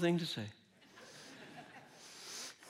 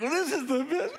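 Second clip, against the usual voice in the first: mock food rapture; 9 semitones higher than usual. Acts out raving while eating.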